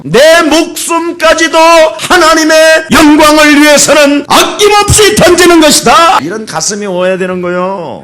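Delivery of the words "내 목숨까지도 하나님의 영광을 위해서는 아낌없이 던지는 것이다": very high, loud, slow proclamation; shouted declaration. Acted. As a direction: cry out a vow at full pulpit force. Acts out a shouted resolve. (높고 크게 외치는 비장한 선포)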